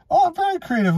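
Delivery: mocking a smug dude. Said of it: "these very logical dudes going".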